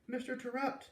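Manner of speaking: high excited shout of a name; excited scream. A narrator's reading. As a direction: call his name out in joyful surprise. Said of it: "I heard screams".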